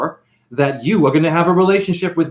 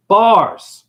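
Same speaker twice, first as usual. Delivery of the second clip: shouted catchphrase; 3 semitones higher, 7 dB louder than usual. Acted. Comedic catchphrase exclamation.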